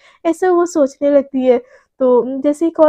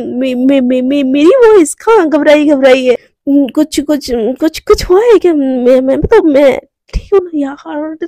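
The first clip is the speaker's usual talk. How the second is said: flustered, stumbling over repeated words; nervous stammer; 4 dB louder than usual. Acted. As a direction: caught out, stammering to cover it up. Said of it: "थोड़ी सी घबरा जाती है".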